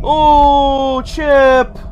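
high, loud wail of fright; real startled yell; startled cry. Real, not acted. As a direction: cry out as if just jumped. Jump scare from the game.

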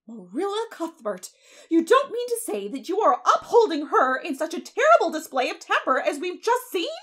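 high, loud outraged question; affronted busybody's protest; indignant demand. A narrator's reading. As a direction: challenge her in swooping disbelief. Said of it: "demanded Missus Rachel indignantly".

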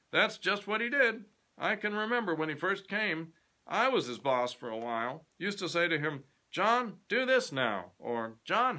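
put-on high, loud chatty old boss; a proud old clerk boasting of the past; garrulous old man, loud and high; old Mister Fisher. Mister Fisher voiced in the story.

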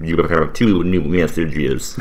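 slow, wavering technical machine voice; wavering robot voice. Shown as a demonstration. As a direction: waver it like a phone system. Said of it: "it sounds better if you waver".

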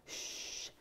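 soft unvoiced shush; hushing whisper. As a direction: hush her quietly. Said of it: "جيت قلت لها".

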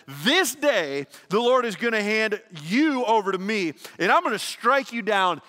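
loud, high, defiant declaration to the giant; David's battle cry. Acted. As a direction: shout it like a warrior before the fight. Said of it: "And then David said".

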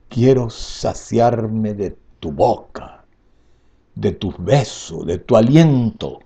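passionate recital, swelling and falling; grand poetry declamation. Acted. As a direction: declaim each line with longing. Recites the poem aloud.

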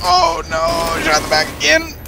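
high-pitched frustrated whine. Real, not acted. Shot again in game.

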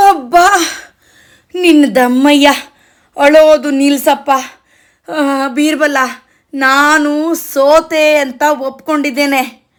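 fed-up father giving in; pleading surrender. Acted. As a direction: implore the child to stop, defeated. Worn-out Akbar begs and surrenders.

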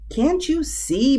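high, slow cow voice; bellowing cow. A narrator's reading. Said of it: "bellowed the cow".

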